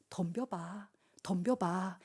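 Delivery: low, soft dare; hushed challenge. Acted. Pastor daring the teenagers to take it on, hushed. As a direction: dare them quietly, voice dropped.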